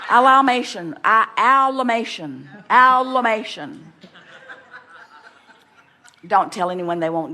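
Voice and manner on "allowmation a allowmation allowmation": laughing coinage. Real, not acted. Coins a word, laughing.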